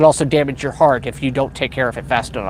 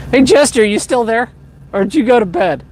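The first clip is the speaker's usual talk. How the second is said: raised voice calling a viewer; 6 semitones higher, 3 dB louder than usual. Real, not acted. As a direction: call out to someone away.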